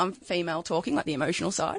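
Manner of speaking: a husky, rough-edged voice. Real, not acted. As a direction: speak with a husky voice. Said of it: "I have got a husky voice today".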